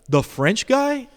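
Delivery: high, slow, drawn-out question; dad is amazed he knows him; surprised question. Retold or imitated.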